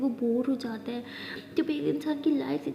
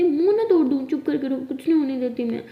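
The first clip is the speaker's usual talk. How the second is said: mock threat; 9 dB louder than usual. Aliya hugs Maya and lovingly threatens her, loud. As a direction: threaten her fondly, full voice.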